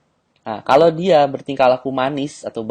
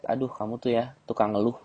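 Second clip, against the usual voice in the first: teasing accusation; 6 dB quieter than usual. Shown as a demonstration. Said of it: "kamu bisa bilang gitu".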